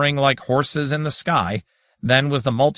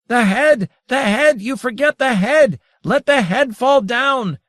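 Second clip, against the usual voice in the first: much higher, louder commanding cry, slowing at the end; 12 semitones higher, 5 dB louder than usual. A narrator's reading. Daytorch commanding the head to fall, loud cry. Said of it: "Daytorch cried".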